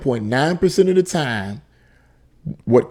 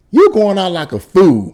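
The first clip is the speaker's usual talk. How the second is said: higher, louder scornful jab; scornful retort; 6 semitones higher, 5 dB louder than usual. Real, not acted. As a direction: throw it back at him mockingly. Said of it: "mocking rapper's gangster line".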